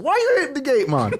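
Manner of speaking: high-pitched retold scolding; mock indignant owner. Owner coming out after customer hit gate, mock indignant. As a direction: imitate an exasperated owner, pitch way up.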